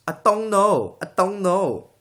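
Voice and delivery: high, loud Asian accent catchphrase; exaggerated Asian accent, punchy and loud; mock Asian accent. Shown as a demonstration. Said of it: "another one is".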